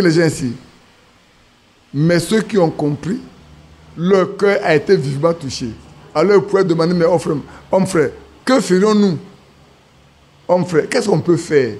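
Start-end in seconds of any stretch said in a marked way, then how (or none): none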